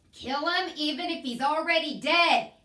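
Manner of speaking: high, loud shouted order; shouting. A narrator's reading. Cook shouts her mouse-killing rule at Mig. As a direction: bellow it with gusto. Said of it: "shouted Cook".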